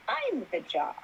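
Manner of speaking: retold hushed moment of revelation; awed realization. Retold dawning realization to herself.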